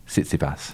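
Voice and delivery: "Tsitsipas" sounded out slowly as sit-si-pas; careful name attempt. Shown as a demonstration. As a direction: try "Tsitsipas" syllable by syllable. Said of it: "Something like that".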